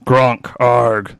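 octopus alligator monster. Acted.

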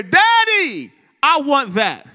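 lightly voiced child demanding it; emphatic child. Son demanding a toy from his daddy, lightly mimicked emphatic. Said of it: "he would emphatically declare".

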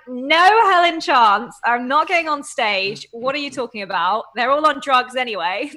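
scoffing retold brush-off; mock indignant refusal. Retelling how she refused a gym lady, mock outraged. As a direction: laugh it off as a flat no. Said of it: "I was like".

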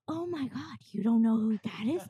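mock outrage that someone missed a celebrity; shocked gasp. Americans shocked she doesn't know someone, exaggerated disbelief.

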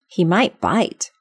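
slow, careful little warning; cautious. Acted. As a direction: say it warily and slowly. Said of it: "Alice cautiously replied".

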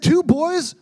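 high, disbelieving retort; can't believe she turned them down; incredulous boys. Retold or imitated. Boys asking the woman in disbelief, high and incredulous. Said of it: "And they said".

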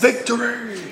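high triumphant cheer; excited. Real, not acted. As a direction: cheer the win. Player cheers kill.

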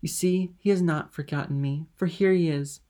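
elated, love-struck triumph; delighted. A narrator's reading. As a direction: burst out happily. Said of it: "blushing with delight and springing up with love".

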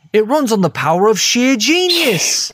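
hyped pitchman read; infomercial pitch. Retold or imitated. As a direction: sell it like an infomercial host. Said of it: "as Mick describes it".

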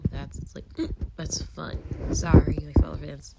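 talking through hiccups; hiccuping between words. Real, not acted. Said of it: "I'm having so many hiccups".

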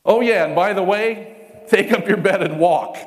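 casual Jesus. Retold or imitated. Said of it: "Jesus says".

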